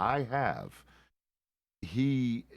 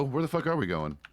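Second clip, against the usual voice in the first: louder, higher, exasperated Where the fuck are we going; exasperated loud question; 6 semitones higher, 3 dB louder than usual. Real, not acted. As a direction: blurt it out loud and fed up. In-game call to partners.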